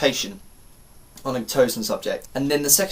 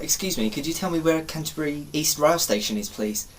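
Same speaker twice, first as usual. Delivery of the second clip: lightly put-on well-spoken English accent; polite, well-spoken English request, softening at the end; 5 dB quieter than usual. Asking a stranger for the station, well-spoken English. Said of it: "I was very well spoken".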